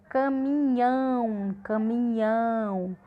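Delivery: "caminhão" drawn out, opening up on "ão"; stress on final syllable. Shown as a demonstration. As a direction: stretch the ending of "caminhão". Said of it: "a boca abre mais pra falar".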